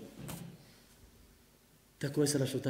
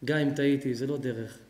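tender wife; 4 semitones lower than usual. Acted. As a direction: coax him back with love. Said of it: "ואז היא מביאה לו".

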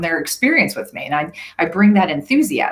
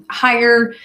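"higher" said a bit higher; higher pitch; 5 semitones higher, 4 dB louder than usual. Shown as a demonstration. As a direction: lift the voice on "higher". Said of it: "use my voice to go".

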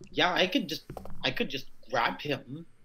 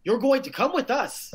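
higher, louder commanding voice; character voice; 10 semitones higher, 4 dB louder than usual. Acted. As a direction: order him along. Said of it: "until I could speak a normal language".

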